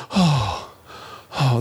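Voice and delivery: imitated long exhale, tension draining out; sigh of relief. Preacher showing a child's body relaxing, relieved sigh. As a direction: let out a falling, relieved sigh. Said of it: "the tension would be released".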